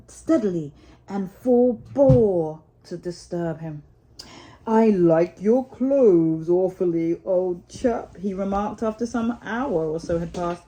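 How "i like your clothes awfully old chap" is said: slow, hint of a jolly water rat; a touch of the kindly Rat; lightly voiced Rat. Rat compliments Mole's clothes, lightly voiced and slow. Rat's voice in the story.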